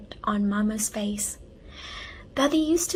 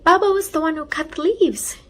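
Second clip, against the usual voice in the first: higher, louder, proud statement; proud big sister, raised voice; 6 semitones higher, 5 dB louder than usual. A narrator's reading. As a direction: say it with pride. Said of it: "she said proudly".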